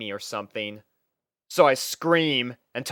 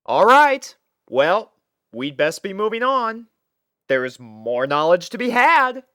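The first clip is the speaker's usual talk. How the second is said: higher, louder mock-heroic declaration; playing along theatrically; 7 semitones higher, 6 dB louder than usual. Ty humoring Twilight's quest, mock-heroic and raised. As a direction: ham up the quest speech to humor her. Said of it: "playing along with her".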